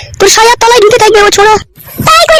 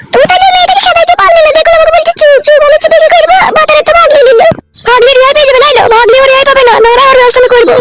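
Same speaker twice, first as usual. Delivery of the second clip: much higher, half-tearful complaint; upset woman; 4 semitones higher than usual. Acted. Woman complaining the girl ran off, higher tearful voice. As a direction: whine it high and near tears.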